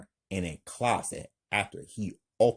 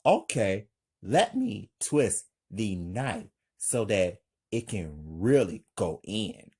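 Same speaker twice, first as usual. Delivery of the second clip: calm; 2 semitones lower than usual. Acted. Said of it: "Frank calmly".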